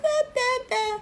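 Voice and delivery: a hint of mock whimpering, high and soft; mock crying. Mocking viewers who cry about her accent, lightly whimpered. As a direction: imitate a whiny crier, half-hearted. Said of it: "crying like".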